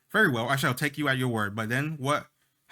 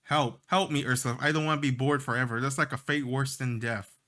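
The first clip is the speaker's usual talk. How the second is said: overdramatic taunt. Acted. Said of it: "taunts Pinky with an overdramatic".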